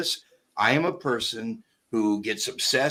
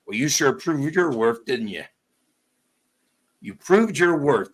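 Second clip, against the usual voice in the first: sarcastic praise; 4 semitones higher than usual. Retold or imitated. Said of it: "and he says".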